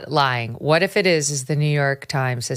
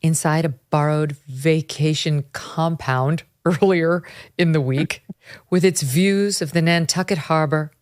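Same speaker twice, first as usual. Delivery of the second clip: put-on mid-Atlantic accent; 2 semitones lower than usual. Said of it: "I'm going into Hollywood nineteen fifties accent now".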